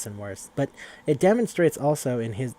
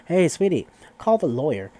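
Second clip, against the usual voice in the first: calling out loudly to someone in another room, pitched higher; 5 semitones higher, 6 dB louder than usual. Retold or imitated. Dad calling his wife to phone the lawyer, loud higher call.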